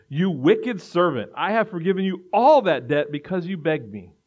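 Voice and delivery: the master's furious verdict; loud stern condemnation of the servant; angry master. Acted. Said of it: "said to him".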